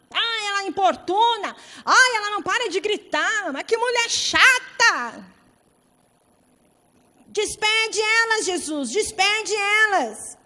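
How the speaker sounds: high, loud, drawn-out exasperated complaint; discípulos irritados. Acted. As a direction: wail it like fed-up disciples begging to be rid of her. Acting out the complaining disciples. (reclamação irritada, aguda e arrastada)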